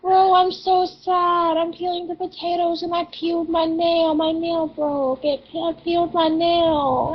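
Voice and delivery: a real near-cry over a broken nail; sad whine. Real, not acted. Friend near tears over a broken nail while peeling potatoes, sad whine. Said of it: "Why do I sound like I'm about to cry?".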